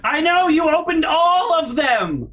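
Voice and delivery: exasperated yell. Retold or imitated. Retold shout at mom.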